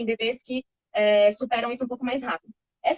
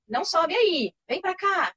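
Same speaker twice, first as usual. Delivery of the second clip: firm; 6 semitones higher, slower than usual. Shown as a demonstration. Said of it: "Quando a gente fala mais firme".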